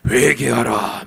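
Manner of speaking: booming voice from above; loud divine command; thundering command. Retold or imitated. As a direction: bark it down like thunder from heaven. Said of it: "벼락을 떨어뜨리면서".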